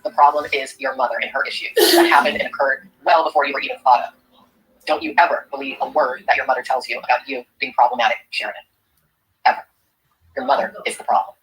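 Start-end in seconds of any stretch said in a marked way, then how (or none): 0.0-9.7 lower-pitched, earnest address; earnest reassurance. Real, not acted. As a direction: reassure her firmly in a lowered voice. Solemn message to the daughter.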